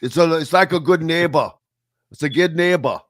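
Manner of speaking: put-on "It's happening, baby" in a light Austrian accent; hint of Austrian ad man; mock Austrian accent. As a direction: ham up an Austrian ad voice, but gently. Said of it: "like Austrian or something".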